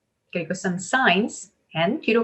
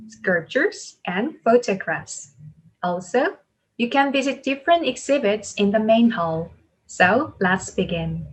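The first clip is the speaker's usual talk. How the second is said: very slow, deliberate reading with stressed key words; announcement model reading; much slower than usual. Shown as a demonstration. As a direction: lift each list item, then fall to close. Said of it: "첫 번째 줄부터 같이 한번 해볼게요". (강세와 억양을 살려 천천히 또박또박 안내방송 읽기)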